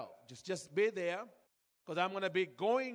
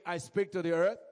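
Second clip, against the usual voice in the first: proclaimed louder for the church to repeat; loud declaration; 6 dB louder than usual. Shown as a demonstration. Preacher leading the church in a loud declaration. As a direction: call it out boldly. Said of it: "Say with me".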